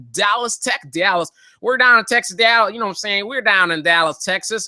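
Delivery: badly faked Texas twang; bad Texas accent. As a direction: put on a hammy Texas accent. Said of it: "if you think that that's a good Texas accent".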